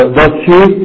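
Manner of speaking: ضز شي said slowly with the z swallowed; slow demo of does she. Shown as a demonstration. Teacher reading the textbook example, slow demo. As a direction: draw out ضز شي as one smooth unit. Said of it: "ونحن ننطقه هكذا".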